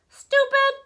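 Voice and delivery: high squawking parrot voice; bird voice. Shown as a demonstration. Reader trying a bird voice, high parrot squawk. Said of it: "How do you do a bird voice?".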